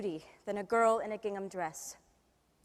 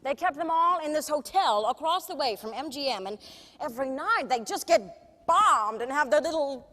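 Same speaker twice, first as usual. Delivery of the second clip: lightly voiced showbiz star reminiscing; theatrical, self-mocking raconteur; a famous singer; 4 dB louder than usual. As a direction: tell wry backstage stories to an audience. A singer's monologue, after plain introduction.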